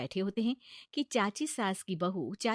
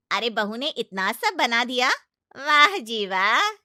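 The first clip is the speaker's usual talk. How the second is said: sarcastic aunt-in-law; 2 semitones higher, 10 dB louder than usual. Acted. Aunt-in-law sarcastically praises the bride's cooking, loud mock praise. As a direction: praise with a sneer.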